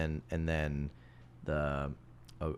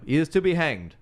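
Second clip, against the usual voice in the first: stern warden; 8 semitones higher, 5 dB louder than usual. Retold or imitated. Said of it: "it's like".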